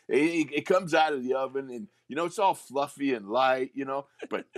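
light West Virginia twang. Retold or imitated. Guard pleading with his coach in a light West Virginia twang. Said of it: "He had a West Virginia twang".

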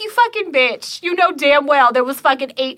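cuss him out in a high, indignant pitch; retold outrage. Teller re-enacting cussing out a friend over a gift card, indignant. Retelling own angry outburst at him.

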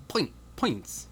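"pint, pints" said as "poynt, poynts" in a put-on Irish accent; Irish-style "poynts"; mock Irish accent. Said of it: "in this accent".

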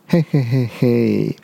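low 'hei-hei' villain chuckle; sly chuckle. A narrator's reading. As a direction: chuckle like a scheming tyrannosaur. Tyrannosaur's sly laugh in story. (霸王龙嘿嘿坏笑)

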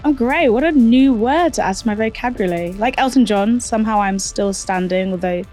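hoarse, croaky voice; croaky voice, soldiering through. Real, not acted. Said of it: "please forgive my very, very croaky voice".

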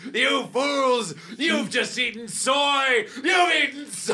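booming frost giant. Acted. Alien villain gloats at contestants.

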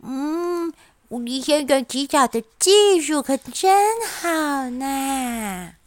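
mumbling, words slurred together; marbles in mouth. Acted. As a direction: talk as if mouth is half full. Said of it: "口齿不清地说".

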